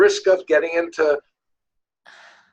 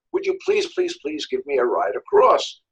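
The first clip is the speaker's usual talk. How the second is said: lightly acted begging, pitched up at first; pleading; 3 semitones lower than usual. Scorpion asking the frog for a ride, mildly pleading. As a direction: plead a little for a favour.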